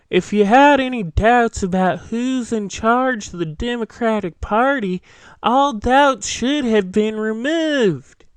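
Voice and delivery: lightly voiced pompous senator, slowing at the end; a hint of a folksy Southern politician; Lindsey Graham impression. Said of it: "let me try to do a Lindsey Graham impression".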